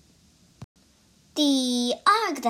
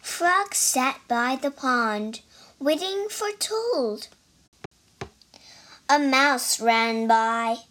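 reading a picture book aloud, line by line; story narration. A narrator's reading. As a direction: tell the story to listeners in a lively way. Child reads story aloud.

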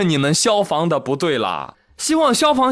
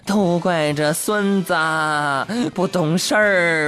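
grumbling grandma; 2 semitones higher, slower than usual. Retold or imitated. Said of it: "一直在嘟囔".

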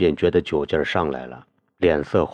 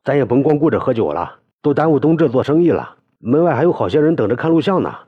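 tipsy talk; 8 semitones higher, 4 dB louder, faster than usual. A narrator's reading. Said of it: "摇摇晃晃地说道".

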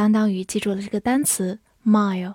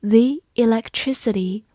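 slow reading. Shown as a demonstration. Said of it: "我们慢读一遍".

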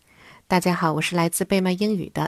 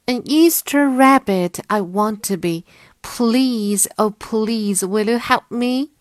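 high, loud begging rabbit voice; pleading white bunny; 4 semitones higher, 5 dB louder than usual. Acted. Bunny going up to Mother Bird for help, pleading. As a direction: beg brightly as a little bunny.

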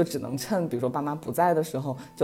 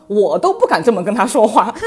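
laughing; 6 semitones higher, 10 dB louder than usual. Retold or imitated. Dad's punchline retold, laughing.

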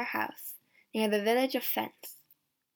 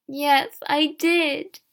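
loud, higher outburst; raised-voice admission, pitched up; crying out; 4 semitones higher, 7 dB louder, much slower than usual. A narrator's reading. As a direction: cry out a confession. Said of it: "Elizon cried".

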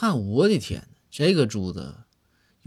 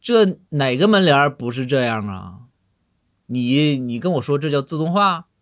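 losing his temper; 3 semitones higher, 5 dB louder than usual. Acted. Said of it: "仁宗就急眼了".

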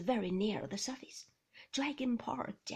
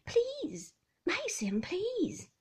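pleading wife; 10 semitones higher, 6 dB louder, much slower than usual. A narrator's reading. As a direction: beg him gently.

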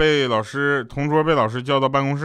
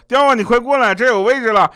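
higher, louder gleeful call across the room; mock excited shout; 9 semitones higher, 7 dB louder than usual. Handsome coworker calls the narrator over to the free seat, gloating. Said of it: "帅哥同事就跟我说".

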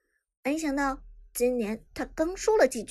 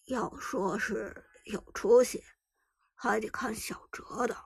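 put-on weathered old man. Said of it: "用沧桑醇厚的声音".

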